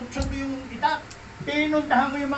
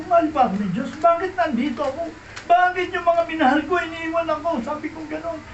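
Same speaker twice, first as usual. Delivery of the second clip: desperate outcry; 4 semitones higher than usual. Retold or imitated. Drunk man despairing aloud to God.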